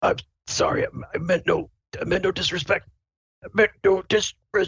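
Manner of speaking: put-on stiff-mouth speech. Acting out the frozen captain's words, imitating him barely moving his mouth. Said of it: "he's like can barely move his mouth".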